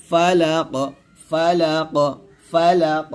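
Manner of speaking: ফালাক ending with a bounced echoing qaf; qalqala on qaf. Shown as a demonstration. Teacher drills the qalqala stop for students. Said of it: "কফটা কলকলা করতে হবে".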